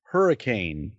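slow, lofty poetic flourish; mock grand oratory. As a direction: overblown speech, drawn out slowly. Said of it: "Is that a euphemism?".

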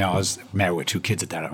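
usual speaking voice

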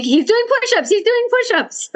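high, breathless fangirl gushing; excited gushing. Pretend. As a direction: gush over him excitedly. Gushing over the actor.

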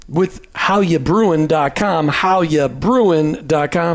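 put-on slow drawled Jersey accent; New Jersey accent. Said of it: "pull out your Jersey accent there".

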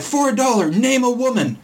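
high, pushy street-interviewer voice; mock rapid-fire quiz voice; imitating Billy Eichner. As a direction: pester a stranger like a game-show host. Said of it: "runs up to random people".

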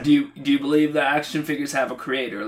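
light New Zealand accent impression; a hint of a Kiwi preacher. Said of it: "I'm trying to do his New Zealand accent".

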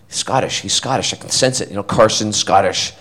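soft, musing to oneself; hushed realisation. Retold or imitated. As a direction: voice a private dawning thought, quietly. Privately realising the character is Scottish.

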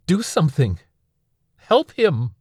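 high, loud pleading shout; desperate shout. Acted. Son shouting at Anil to save his father, frantic. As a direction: yell up at him for help, frantic. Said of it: "I shouted up at him".

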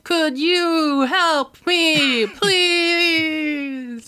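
high, frantic cry for help; panicked plea. Acted. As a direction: beg for rescue in a high, panicked voice. Librarian trapped in whirlwind cries out.

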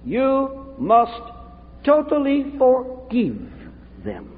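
put-on slow, high Romanian-accented pronouncement. Romanian friend urging him to forgive, in a slow accent. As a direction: imitate a Romanian friend's solemn, drawn-out charge. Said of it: "said in his Romanian accent".

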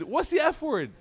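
high, worried question to his son; nervous question. Retold or imitated. Father nervously asking his son which word he meant, high and worried. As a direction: ask it high and anxious, bracing.

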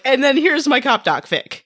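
mock giddy. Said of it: "And then she's like".

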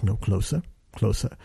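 low, restrained command; booming director voice. Retold or imitated. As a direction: imitate a deep-voiced director beckoning. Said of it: "it's like James Earl Jonesy".

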